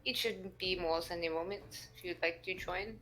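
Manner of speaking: lightly voiced polite French character; measured, polite French-accented speech; French-accented adventurer. Plays Olivier in character.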